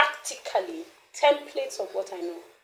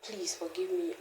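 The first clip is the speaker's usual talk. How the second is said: whispered plea; 2 semitones lower, 11 dB quieter than usual. Retold or imitated. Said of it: "lay my hands on ... and say".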